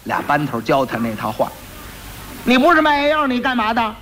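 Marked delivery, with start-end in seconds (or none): 2.4-3.9 high sharp challenge; sharp demand. Acted. Magistrate sharply challenging the quack's claim, high sharp voice. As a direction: snap the question.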